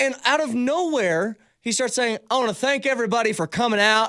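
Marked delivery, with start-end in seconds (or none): 2.3-4.1 sudden put-on Southern US accent. Imitating a friend thanking the crowd at a party: imitating a Southern accent. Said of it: "Why is he speaking in a Southern accent?".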